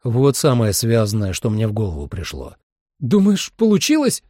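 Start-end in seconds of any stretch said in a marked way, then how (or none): 3.0-4.2 high-pitched, raised call from under cover; shouted question. Acted. Holly calls out from under cover, high shout. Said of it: "крикнула Холли из-под варга воски".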